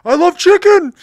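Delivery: loud shouted heckle from the crowd; shouting fan. Retold or imitated. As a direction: yell it out like a heckler. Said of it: "whenever there was silence, he'd just".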